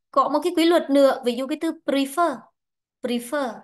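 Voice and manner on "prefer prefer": "prefer" with stress on the long second syllable; teacher demonstrating "prefer" as pre-FER. Shown as a demonstration. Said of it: "trọng âm rơi vào nó".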